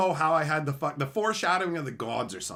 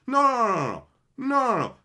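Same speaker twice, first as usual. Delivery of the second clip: rising, louder string of no's; emphatic no; 8 semitones higher, 7 dB louder than usual. Retold or imitated. Telling off the bossy manager, forceful no. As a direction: shut her down hard.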